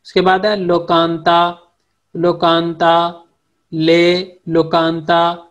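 लोकांता drawn out syllable by syllable; slowed-down drill of लोकांता; Turkish word demo. Shown as a demonstration. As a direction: say लोकांता slowly, lo-kan-ta. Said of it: "teacher drilling Turkish vocabulary".

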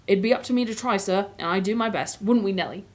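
lightly voiced Cockney cabbie; mild Cockney, a humble working man; Cockney accent. Cabbie answering Aslan about ruling, light Cockney accent. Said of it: "the Cockney accent is what I've been doing".

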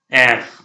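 एख ending in throaty kh; German R name. Shown as a demonstration. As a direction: say एख with a scraped ending. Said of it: "आर क्या होगा?". (एख को आख़िर में ख के साथ बोलें)

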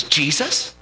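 incredulous, pitch jumping up in protest; mildly acted outrage, rising then falling hard; retold angry challenge. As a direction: throw it back as an indignant wife. Wife angrily challenges him in story.

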